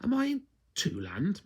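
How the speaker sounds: whispered question; whispered wondering. A narrator's reading. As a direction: breathe it unvoiced. Nosy asks quietly.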